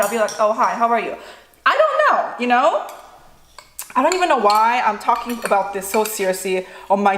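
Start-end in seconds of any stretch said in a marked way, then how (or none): 0.4-1.2 flat, unenthused hello in her own voice; dry, dutiful hi; bad-mood greeting. Shown as a demonstration. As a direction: greet someone when you just want to be left alone. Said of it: "If I'm in a bad mood".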